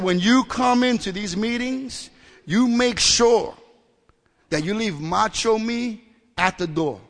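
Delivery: slow, loud, weighty warning; stern sponsor lecture. Retold or imitated. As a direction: lay down the law, leaning on each phrase. Old sponsor lays down the law.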